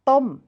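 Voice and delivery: "Tom" with unaspirated T and short o; Thai pronunciation. Shown as a demonstration. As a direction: say "Tom" the Thai way, rising then falling. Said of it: "with that unaspirated th sound".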